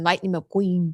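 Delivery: put-on stuffed-up, congested child voice. Imitating a stuffed-up child saying a toy car's name: stuffy voice of Will. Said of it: "a stuffed up Will going".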